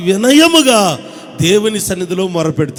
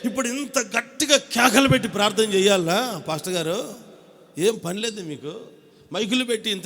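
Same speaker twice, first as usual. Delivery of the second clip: mocking critic. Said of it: "కొంతమంది ఏమంటారంటే".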